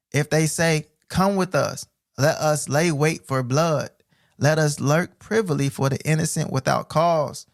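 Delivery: slow, solemn reading; measured preacher's reading; scripture reading. Acted. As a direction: draw out each clause of the verse.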